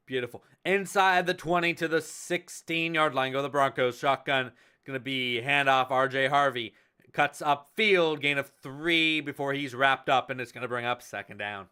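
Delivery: sportscaster call back in rhythm; play-by-play. Acted. Back to calling the drive.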